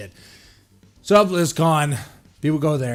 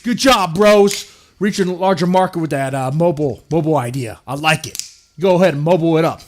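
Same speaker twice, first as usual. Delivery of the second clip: hammed-up bro praise; 5 dB louder than usual. The speaker high-fives Blizzard on stage.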